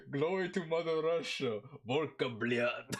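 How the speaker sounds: mock Russian accent, hammed up. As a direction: boom it out like a Russian patriot. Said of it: "employ your Russian accent".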